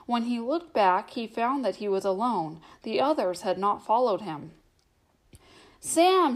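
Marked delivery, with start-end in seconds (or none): 5.8-6.3 high, loud call of a name; calling a lost friend. A narrator's reading. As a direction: call out into the mist. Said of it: "he called".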